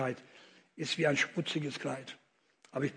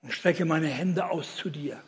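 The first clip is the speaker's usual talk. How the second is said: guided prayer. Shown as a demonstration.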